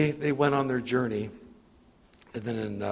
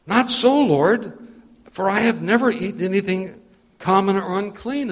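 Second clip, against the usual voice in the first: higher and louder, pleading refusal; alarmed loud protest; 5 semitones higher, 4 dB louder than usual. Acted. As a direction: cry out against the command. Peter refuses the voice again.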